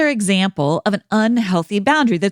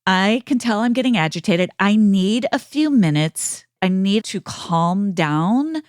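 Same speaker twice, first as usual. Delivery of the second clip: calming down; 2 semitones lower than usual. Shown as a demonstration. Example of calm self-regulation.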